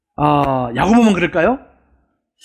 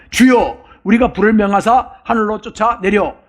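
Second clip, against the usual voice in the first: lightly voiced zealous disciple, a little raised; self-styled Elijah; 2 semitones higher than usual. Hot-headed disciple asking Jesus to allow fire from heaven, mildly grandiose. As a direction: appeal to the Lord as if a mighty prophet. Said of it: "마치 자기가 엘리야인 것처럼".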